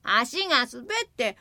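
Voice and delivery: high, stammering desperate excuse; pleading excuse. Acted. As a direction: beg forgiveness, stammering. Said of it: "一生懸命言い訳をした。". (高い声で必死に言い訳する)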